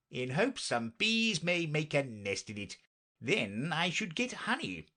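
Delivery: a hint of an eccentric knight, lilting; lightly voiced knight. Knight tells Alice about his beehive hopes, lightly voiced. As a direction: lightly play a hopeful knight.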